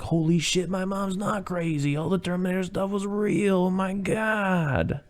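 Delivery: put-on high, slow, awed boy's voice; amazed kid. John stunned that his mom was right, high awed voice. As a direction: gasp it out like a stunned kid realizing.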